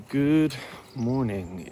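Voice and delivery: slow, stretched sleepy good morning; drawn-out greeting. Real, not acted. Stretched-out sleepy greeting. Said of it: "I don't know why I say good morning".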